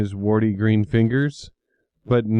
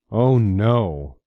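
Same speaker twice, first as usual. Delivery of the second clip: ordinary delivery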